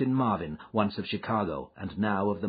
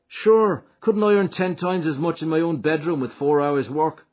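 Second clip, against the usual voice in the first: bragging, higher and louder; voiced McMurdo; 9 semitones higher, 9 dB louder than usual. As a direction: scoff at the small wage. McMurdo brags.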